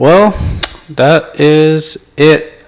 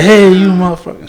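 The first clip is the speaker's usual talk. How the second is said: mock Samuel Jackson; 6 semitones higher, 4 dB louder than usual. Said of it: "They do, like, the Samuel Jackson".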